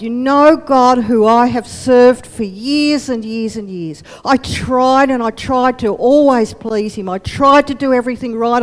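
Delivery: calmer earnest. Acted. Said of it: "Paul calms down a bit".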